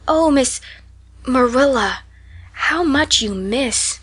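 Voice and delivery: high then slow, drawn out; wondering child; pitying wonder. Acted. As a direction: sigh over what she misses. Anne sighs in pity.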